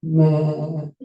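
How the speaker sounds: drawn-out mock bleat; teasing imitation of a listener as sheep. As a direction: bleat back blankly like a sheep. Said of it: "you're looking at me and you're like".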